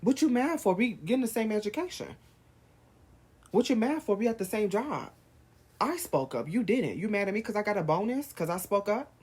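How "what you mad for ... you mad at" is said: high, loud, exasperated shouts; shouting at the envious; heated yelling. Real, not acted. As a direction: demand an answer, fed up. Confronting an envious listener.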